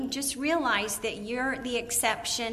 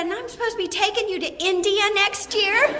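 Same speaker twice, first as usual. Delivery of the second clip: high, louder, laughing mock husband; teasing husband; 11 semitones higher, 5 dB louder than usual. Husband teasing wife about the India trip, high laughing scoff. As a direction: tease her through laughter. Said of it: "He said".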